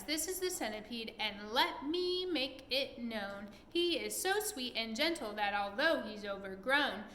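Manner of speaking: bouncy recited poem; rhyming verse. Acted. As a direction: recite it with a steady rhythm. Reading verse aloud.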